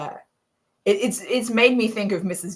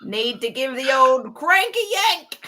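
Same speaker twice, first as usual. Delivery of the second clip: thick male Aussie grumble; hardcore Aussie accent; 3 semitones higher than usual. Acted. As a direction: put on a broad Australian bloke's accent. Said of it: "Hardcore Aussie".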